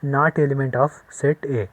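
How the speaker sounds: slow, drawn-out reading aloud; slow model reading. Shown as a demonstration. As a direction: show the class how it is read. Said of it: "या फिर ऐसे पढ़ेंगे".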